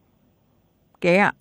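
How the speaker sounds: mock expert verdict. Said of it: "ก็มักจะถูกบอกว่า".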